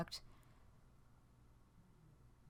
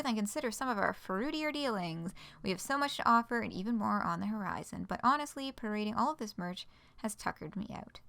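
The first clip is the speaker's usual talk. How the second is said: lively, scripted news-post delivery; announcement read-aloud. Acted. Spokesperson sharing the merch store with fans, announcement read-aloud. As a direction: read it out like a cheerful site announcement.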